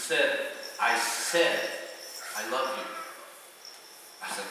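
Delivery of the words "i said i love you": low, measured, mildly stern; a bit more stern. Retold or imitated. God repeats himself to a doubting believer, mildly stern. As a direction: repeat it firmly without raising the voice. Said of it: "a little bit more stern".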